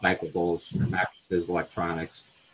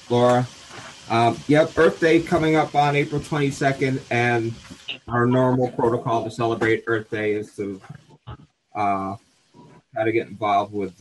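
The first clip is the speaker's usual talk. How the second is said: breathless after running; talking while catching breath; 2 semitones higher than usual. Real, not acted. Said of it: "I'm out of breath".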